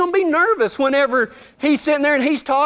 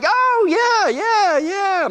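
high, nervous-sounding agreement; mock overeager; 9 semitones higher, much slower than usual. On the phone to Chris, mock overeager. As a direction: imitate yourself gushing too eagerly.

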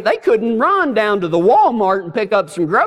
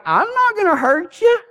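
higher put-on voice of a calm bouncer; big bouncer voice; 9 semitones higher than usual. Bouncer Eddie calmly telling the screaming narrator he won't hurt him. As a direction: play the huge bouncer shrugging it off.

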